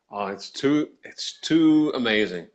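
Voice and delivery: slow, dripping sarcasm on too amazing; sarcastic. Shown as a demonstration. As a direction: drawl it out like you don't mean it. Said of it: "it totally depends on the tone of voice".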